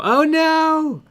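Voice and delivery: high loud oh no; mock dismay. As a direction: cry out in fake horror.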